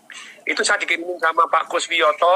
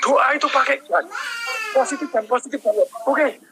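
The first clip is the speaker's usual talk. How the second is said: retold fatherly scolding, raised pitch; mild, insistent telling-off, pitched up; 5 semitones higher than usual. Father corrects his children about how to pray, mildly scolding. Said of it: "kemudian saya marahin mereka".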